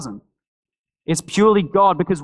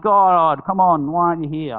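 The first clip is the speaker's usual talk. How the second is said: mock tantrum. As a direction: act out a childish little tantrum at God. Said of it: "I chuck a little tantrum".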